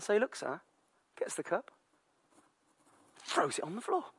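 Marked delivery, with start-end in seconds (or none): none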